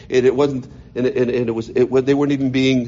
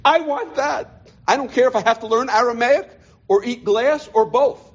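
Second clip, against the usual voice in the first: passionate plea; 7 semitones higher than usual. Retold or imitated. Crying to himself, retelling vow.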